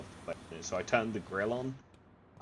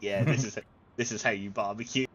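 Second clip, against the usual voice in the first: louder, laughing mock confidence; laughing bravado; 3 semitones higher, 6 dB louder than usual. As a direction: laugh it off to the neighbours. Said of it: "It's like".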